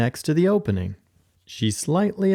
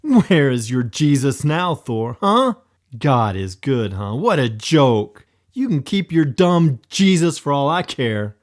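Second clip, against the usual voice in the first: loud, angry outburst; angry mocking rant; blurted in anger; 2 semitones higher, 5 dB louder than usual. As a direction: lash out bitterly. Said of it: "blurting out thoughtlessly in anger".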